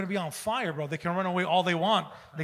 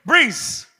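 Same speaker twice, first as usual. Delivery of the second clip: loud, high Park Ex accent imitation; exaggerated Park Ex accent, pushed up; mock Park Ex accent; 6 semitones higher, 9 dB louder than usual. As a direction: belt it out in a put-on Park Ex accent. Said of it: "All I hear is".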